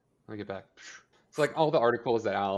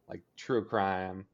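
usual speaking voice

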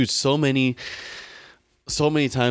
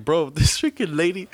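laughing disbelief; 6 semitones higher than usual. Real, not acted. Laughing at the rude driver.

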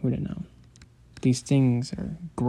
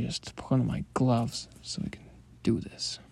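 whisper; 6 dB quieter than usual. Acted. Whispered aside during dissection.

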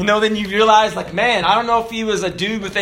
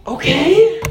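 resigned okay; 8 semitones higher, 3 dB louder than usual. Retold or imitated. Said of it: "I'm like".

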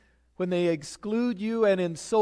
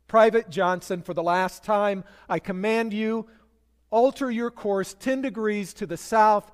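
angry captain; 3 semitones higher, 5 dB louder than usual. Retold or imitated. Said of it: "the captain was angry".

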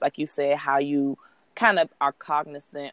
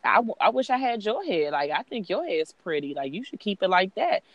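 reassuring mom; 4 semitones higher than usual. Retold or imitated. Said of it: "and I'm just like".

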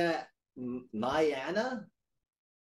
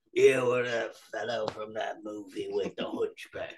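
acted recognition; 3 semitones lower than usual. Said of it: "I'm like".

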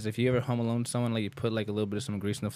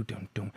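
imitated footsteps; 8 dB quieter than usual. Acts out burglar walking over.

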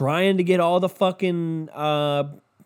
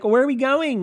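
put-on girls' whine; 10 semitones higher than usual. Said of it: "And so they're like".

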